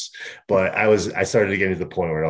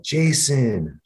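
retold shout; 5 semitones higher than usual. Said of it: "keep shouting".

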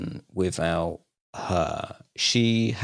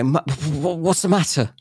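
imitating his wife; 8 semitones higher than usual. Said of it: "she'll go".

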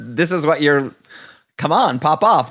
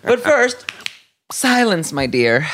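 theatrical diva. Pretend. Theatrical mock command.

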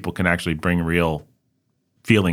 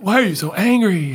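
high, puzzled friend voice; high mock question from the friends; 13 semitones higher, 3 dB louder than usual. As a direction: tease him with a high put-on voice. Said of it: "they'd be like".

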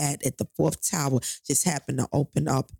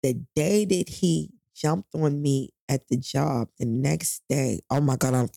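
emotional; 4 semitones lower than usual. Real, not acted. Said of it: "forgive me, I'm getting emotional".

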